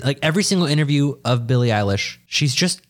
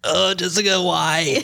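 laughing, pained whine; laughing complaint; 6 semitones higher than usual. Real, not acted. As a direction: groan through laughter. Grimacing after warm vodka shot.

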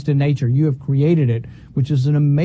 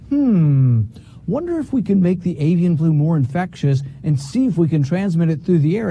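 a hint of a curious researcher thinking aloud; mock musing scientist. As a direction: play a scientist toying with an idea, tongue in cheek.

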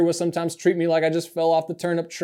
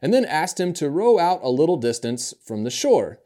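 measured, reverent reading of the gospel to the congregation; scripture reading. Acted. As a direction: read the passage steadily, like a lector at the lectern. Reads the gospel passage aloud.

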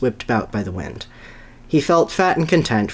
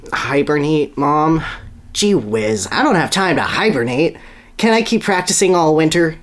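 pleading; 5 semitones higher than usual. Acted. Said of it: "he pleaded".

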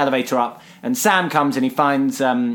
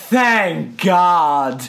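mock relieved cry; 3 semitones higher, 3 dB louder than usual. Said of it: "both Jonah and Sam go".

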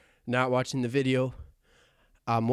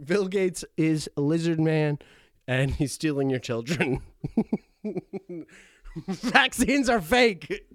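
laughing through a fake rant; hammed-up conspiracy claims breaking into laughs; mock conspiracy rant; 2 semitones higher, 4 dB louder, slower than usual. Host mocking conspiracy theories, laughing through it.

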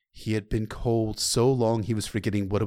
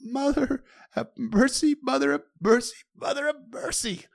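desperate prayer. Acted. Desperate repeated prayer while walking.

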